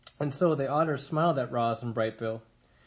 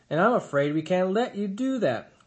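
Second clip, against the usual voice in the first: menacing bear; 6 semitones higher, 5 dB louder than usual. A narrator's reading. Bear blocks Roz menacingly.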